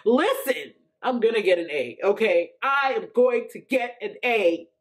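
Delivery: insistent, half-hearted re-enactment of screaming at doubts; retold scream. Woman screaming away her doubts in the car, as a mild retold scream. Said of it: "I started screaming in the name of Jesus".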